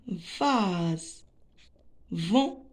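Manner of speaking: vase slowly, with a long drawn vowel; teacher sounding out vase; sounded out. Shown as a demonstration. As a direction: stretch vase out to a buzzing final z. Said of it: "on va découper les mots en syllabes".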